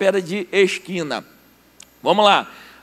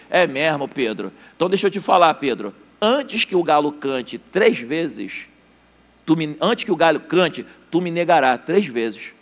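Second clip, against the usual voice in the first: solemn Jesus; 4 semitones lower than usual. Acted. Jesus foretells Peter's denial.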